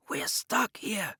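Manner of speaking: tense, slow whisper; a slow, hushed warning whisper. A narrator's reading. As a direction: whisper so the guard can't hear. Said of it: "he whispered".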